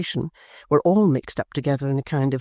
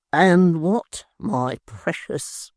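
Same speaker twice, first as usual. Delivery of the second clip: lightly voiced sweet talk; 3 semitones higher, much slower than usual. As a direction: tease out her fear gently. Tappertit coaxing.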